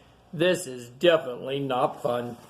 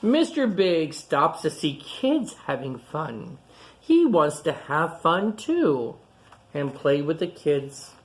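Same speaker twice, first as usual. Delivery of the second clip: clear, lively picture-book reading voice; reading to children. Acted. Reading a picture book aloud to young kids, storytelling. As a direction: read it out to the kids gathered round.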